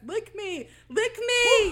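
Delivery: loud growling demon command. Retold or imitated. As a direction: bark it like a possessed girl. Demon line retold loudly.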